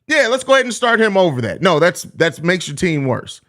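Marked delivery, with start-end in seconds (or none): 0.1-1.6 a higher, mocking voice of a clueless fan; mocking fan logic. Streamer mimics fans who want Drummond starting, mocking voice. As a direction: parody the fan's reasoning, higher and sing-song. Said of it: "I don't understand the concept of".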